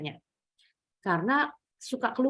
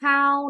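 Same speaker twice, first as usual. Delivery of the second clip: "How" pitched high and drawn out; 4 semitones higher, 6 dB louder than usual. Shown as a demonstration. Teacher shows where the question starts, high "How". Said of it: "naik how-nya".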